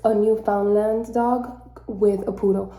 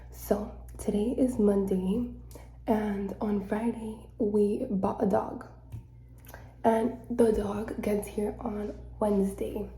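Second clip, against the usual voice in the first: whisper; 4 dB quieter than usual. Real, not acted. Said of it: "I have to whisper".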